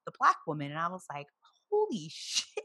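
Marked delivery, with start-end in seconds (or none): 1.7-2.6 very high-pitched, laughing disbelief; squeaky mock shock with a laugh; stunned realization. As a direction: act out a stunned exclamation up high. Retelling her shocked realization.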